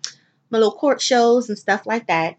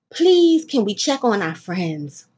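urgent plea; slower than usual. Real, not acted. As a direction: beg them, pitched way up. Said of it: "pleading with listeners".

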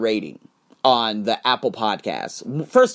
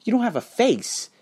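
mock whiny reply; 2 semitones higher than usual. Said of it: "Do you think I'm gonna sit there and say".

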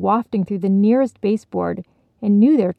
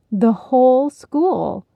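slow, firm confirmation; Penny confirming the news, slow and sure; 5 semitones higher, 4 dB louder, slower than usual. Acted. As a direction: state it with certainty. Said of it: "Penny confirmed".

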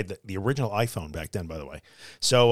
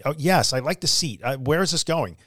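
retold mild exasperation, pitched higher; a little fed up, voice lifted; mildly frustrated; 4 semitones higher than usual. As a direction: replay a touch of impatience. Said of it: "getting a little bit frustrated".

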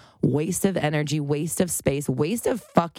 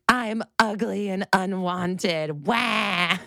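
mock whiny self-pity; 4 semitones higher, much slower than usual. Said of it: "to be like".

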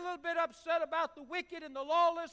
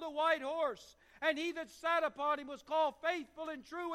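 scripture reading. Acted. Preacher reading Revelation to the congregation, proclaiming. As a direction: read Revelation with preacher's force.

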